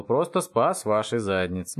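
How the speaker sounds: drawn out for emphasis; slow smug repeat. Acted. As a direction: spell out your heroics slowly. Повторяет медленно, с нажимом. (медленно, с нажимом)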